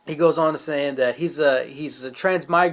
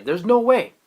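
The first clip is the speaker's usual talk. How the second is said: louder, higher cry of disbelief; stunned disbelief; 7 semitones higher, 4 dB louder than usual. Retold or imitated. Fan reacting to the Sage's reveal, louder stunned disbelief. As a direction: blurt it out, unable to believe it. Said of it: "I was like".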